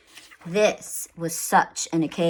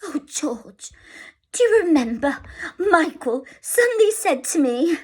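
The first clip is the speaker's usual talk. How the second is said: tearful memory; 9 semitones higher than usual. Acted. Mother remembering, tearful.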